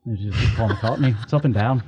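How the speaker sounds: sing-songy Liverpool accent, lightly put on. Shown as a demonstration. Showing a friend English accents, sing-song Liverpool accent. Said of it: "everything is kind of sing-songy".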